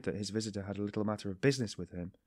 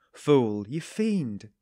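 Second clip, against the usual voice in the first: roaring; 3 semitones higher, 8 dB louder, much slower than usual. A narrator's reading. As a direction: bellow it at him in fury. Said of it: "he roared".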